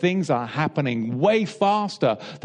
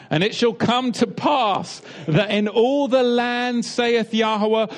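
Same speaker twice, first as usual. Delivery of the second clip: solemn, elevated reading voice, slowing at the end; scripture reading; 3 semitones higher than usual. Acted. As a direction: declaim it like holy scripture. Reads scripture aloud.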